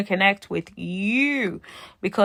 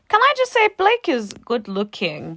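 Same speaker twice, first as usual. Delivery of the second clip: excited; 5 semitones higher, 5 dB louder than usual. Real, not acted. Gushing aside about Blake's looks.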